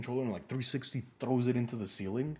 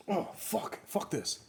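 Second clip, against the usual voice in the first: imitated frustrated anger; 10 semitones higher, much slower than usual. Customer giving up before hanging up, frustrated. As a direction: huff it like a fed-up caller. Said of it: "I don't care how angry you are".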